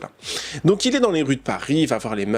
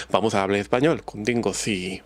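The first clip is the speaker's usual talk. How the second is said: a light Spanish accent, trailing off; Spanish accent demo; 3 semitones lower than usual. Shown as a demonstration. Vlogger proving she can do the accent, in a Spanish accent. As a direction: show off a Spanish accent casually. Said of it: "Vous voyez, je peux faire l'accent".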